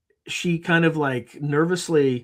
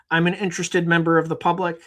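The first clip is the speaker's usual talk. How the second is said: mock stiff reply; 4 semitones higher than usual. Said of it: "she didn't say it that way".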